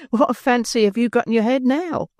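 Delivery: light, forced teasing; Nancy teasing. A narrator's reading. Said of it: "forcing a laugh".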